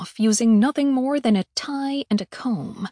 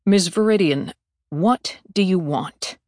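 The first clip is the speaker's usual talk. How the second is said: stiffly; 4 semitones lower, 4 dB louder than usual. Acted. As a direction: clip each word, guarded and formal. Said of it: "he asked stiffly".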